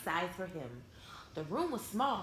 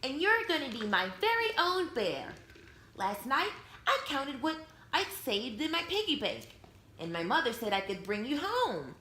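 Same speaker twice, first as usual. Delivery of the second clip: put-on little girl voice; 3 semitones higher than usual. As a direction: play the eager girl who just bought her bear. Girl Lisa talks to her bear.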